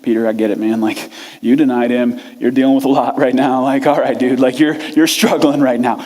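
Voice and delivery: patronising calm. Retold or imitated. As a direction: talk him down like a patient friend. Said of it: "Thomas is in here going".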